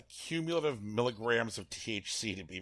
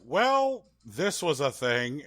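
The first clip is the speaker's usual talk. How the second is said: unimpressed; 5 semitones higher, 8 dB louder, slower than usual. Pretend. Imagined shrug at the arena.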